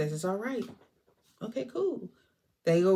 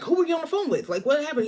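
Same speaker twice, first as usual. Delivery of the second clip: mock worried question; 8 semitones higher, much faster than usual. Marina questions Rocco.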